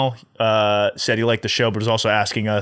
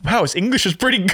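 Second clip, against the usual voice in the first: laughing; 7 semitones higher than usual. Retold or imitated. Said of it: "my first thought before thinking was like".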